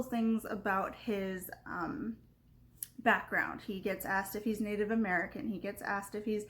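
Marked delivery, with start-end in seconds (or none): none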